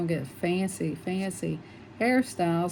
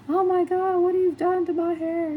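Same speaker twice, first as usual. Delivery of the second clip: much higher and louder, horrified; horrified shriek; 12 semitones higher, 6 dB louder than usual. Retold or imitated. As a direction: shriek it as if you just saw your ruined hair. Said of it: "she got the mirror and she said".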